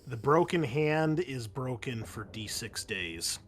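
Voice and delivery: ordinary talk, nothing marked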